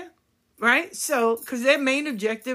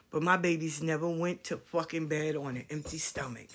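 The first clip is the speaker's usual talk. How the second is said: low, hushed and fierce; fierce whisper; 6 semitones lower, 8 dB quieter than usual. Real, not acted. Mother vowing her kids never went hungry, fierce whisper. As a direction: press it out in a hard whisper.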